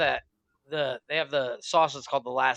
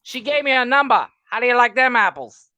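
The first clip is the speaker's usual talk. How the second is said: gloating line yelled high and loud; hammed-up movie gloat, much louder; mock triumphant shout; 7 semitones higher, 9 dB louder than usual. Retelling movie to friend, loud mock gloat. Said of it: "He's like".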